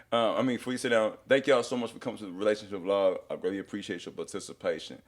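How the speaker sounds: nervous auctioneer rush, retold; imitating a hurried, nervous host; talking fast. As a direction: rattle off the thanks quickly. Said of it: "I'm talking fast".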